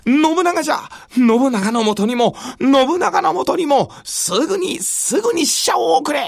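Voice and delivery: flustered urgent orders; agitated lord. Acted. Shogun orders envoy to Nobunaga.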